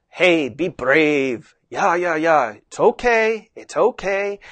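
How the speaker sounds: steady, reassuring encouragement, lifting on the okays; encouraging reassurance. Shown as a demonstration. Rider easing horse past something scary, reassuring. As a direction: coax a nervous horse onward. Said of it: "just my tone of voice to settle the horse".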